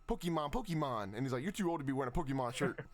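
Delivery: imitating the chef. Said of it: "He literally said it just like that".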